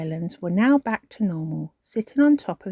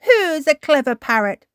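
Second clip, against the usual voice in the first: fond cooing praise; 8 semitones higher, 7 dB louder than usual. A narrator's reading. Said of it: "beaming at Polly".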